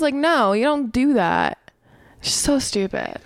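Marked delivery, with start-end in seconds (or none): 2.2-3.2 whispered aside. Real, not acted. Muttered judgment.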